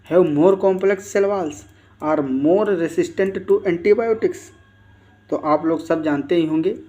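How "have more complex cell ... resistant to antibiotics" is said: slow, drawn-out reading of an exam option; reading a quiz option. Acted. Teacher reads the quiz option aloud to students, very slowly. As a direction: read it out word by word for the class.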